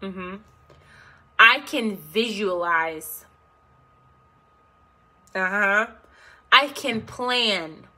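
slow affirmations with stretched final words; repeat-after-me affirmations. Shown as a demonstration. Coach asks viewers to repeat after her, slow deliberate affirmations. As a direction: lead listeners through each phrase, leaving room to echo.

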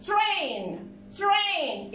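"Train" with the A said as its letter name; long A sound. Shown as a demonstration. Teacher modelling phonics to children, long A in "Train". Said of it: "ال A لما جه معاها I بقت A".

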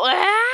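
sudden loud, high scream; startled scream. Real, not acted. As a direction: cry out mid-sentence in fright. Cut off by a scare.

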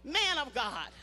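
slow, high, syrupy forced sweetness; sugary praise through anger. Shown as a demonstration. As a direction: sweetly praise him while fuming. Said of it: "when he make you mad, say".

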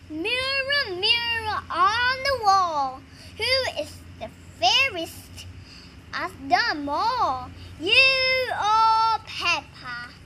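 lightly acted princess at her mirror; slow, drawn-out storybook recital; fairy-tale mirror rhyme. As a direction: stretch the words out like a spell.

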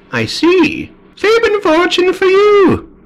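very high, drawn-out mystical voice; vampire fortune-teller. Acted. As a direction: proclaim a prophecy in a high, slow vampire voice. Vampire reads the crystal.

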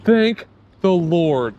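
slow drawn-out thanks; grateful sigh of relief; relieved. Real, not acted. Relief after landing fish.

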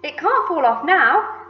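high, loud, stretched-out shout. A narrator's reading. Aunt watching peach touch ground, shouting. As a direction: shout it slowly and firmly.

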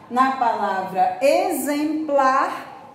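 "exemplar" devagar, X como Z; slow exemplar. Shown as a demonstration. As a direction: marque o Z em "exemplar". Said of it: "tem o som do Z". ("exemplar" lento, X soando Z)

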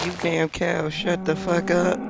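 high, slow exasperated telling-off; annoyed yell. Real, not acted. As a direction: snap at the noisy cow. Yelling at mooing cow.

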